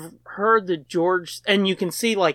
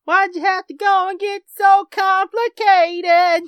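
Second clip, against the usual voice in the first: mock exasperated; 14 semitones higher, 6 dB louder, slower than usual.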